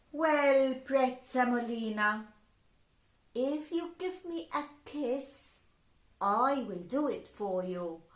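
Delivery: Mama's offer. Acted. Mama bargains.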